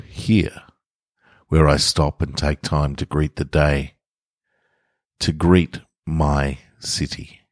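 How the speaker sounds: measured, unhurried story reading; story narration. A narrator's reading. Podcaster reading her fiction to listeners, calm narration.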